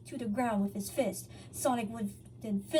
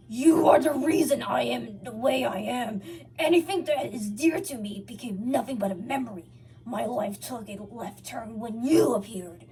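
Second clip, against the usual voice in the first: Sonic explaining; 7 dB louder than usual. A narrator's reading. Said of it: "Sonic explained".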